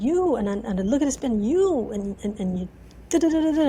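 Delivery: re-enacted scolding with stabs on YOU; harsh venting. Believer poking a finger at Jesus, retold angry venting. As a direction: imitate an accusing rant running into nonsense syllables. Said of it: "harsh words".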